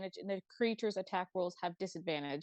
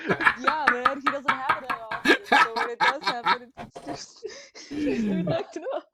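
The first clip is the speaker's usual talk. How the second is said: laughing; 4 semitones higher, 8 dB louder than usual. Real, not acted. Laughing at the sneeze joke.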